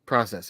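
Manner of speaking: "Process" echoed as PRAH-sess; process with short AH. Retold or imitated. Echoing the answer, "Process" said PRAH-sess. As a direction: say "Process" with an AH, falling pitch. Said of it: "Do you say process or process?".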